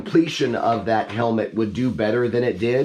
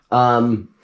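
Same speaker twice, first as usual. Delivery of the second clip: hoarse voice cracking mid-word; 3 dB louder than usual. Real, not acted. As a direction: let the sore voice crack. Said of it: "my voice cracked there".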